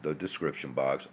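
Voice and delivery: drowsy, sleepy voice; barely awake, words slurring; half asleep. Real, not acted. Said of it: "I'm still kinda half a-, half asleep".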